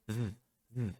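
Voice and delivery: "v" as a buzzing voiced th, tongue between teeth; voiced th sound. Shown as a demonstration. Teacher demos the voiced th to students. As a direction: hold the voiced th with throat vibration. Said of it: "existe um som que você faz uma vibração na garganta".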